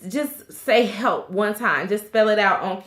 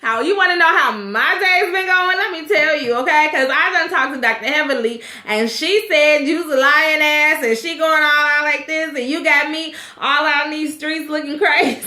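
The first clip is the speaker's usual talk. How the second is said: mock angry wife; 4 semitones higher than usual.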